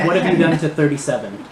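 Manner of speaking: lightly voiced nerdy villain; high-pitched nerdy voice. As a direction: question them with a hint of nerdy indignation. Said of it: "the voice continues".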